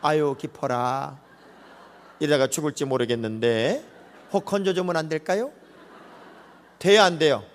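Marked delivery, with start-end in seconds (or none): 0.0-5.5 polite, lightly mocking drowning plea; overly genteel plea. Drowning man asks the crowd for help, mock genteel and unhurried. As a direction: ask for rescue far too politely. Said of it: "아주 고상하게".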